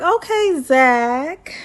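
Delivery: high, drawn-out approving "Okay, Zach". Retold or imitated. To Zach on his wedding day, a high teasing approval. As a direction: sing his name out like a proud auntie. Recapping Zach getting emotional.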